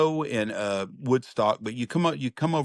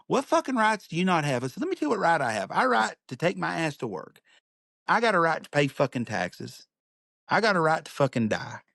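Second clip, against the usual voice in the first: higher-pitched mock-indignant rant; retold heated rant; 5 semitones higher than usual. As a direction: hammer each right home. Heated argument with petitioner, retold.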